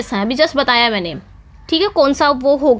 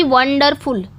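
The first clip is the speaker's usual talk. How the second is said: वंडरफुल with stressed वन, quicker डरफुल; stress on first syllable; much slower than usual. Shown as a demonstration. Teacher showing a dactyl, first syllable of वंडरफुल stressed. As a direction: lean on वन, let डरफुल follow unstressed. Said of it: "इस पे वन पे क्या हो रहा है".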